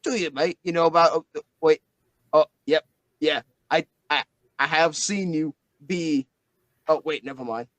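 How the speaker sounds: a light Australian twang, mate; a hint of an Australian bloke; Aussie accent. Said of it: "Can't do the accent for too long".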